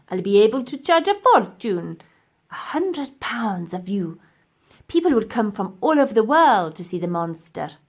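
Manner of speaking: lightly voiced scheming professor; gloating villain. Professor boasting of his zoo, mild gloat. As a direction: relish the plan a little.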